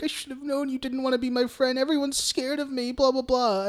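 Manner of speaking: high, soft poor-me voice; mock fake crying. Host retells Pennywise luring the girl, mock pitiful. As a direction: imitate a clown playing pitiful, lightly and softly. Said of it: "it starts, like, fake crying".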